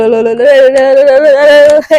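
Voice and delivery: a loud sung-out frightened squeal; panicked squeal. Acted. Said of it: "घबरा के".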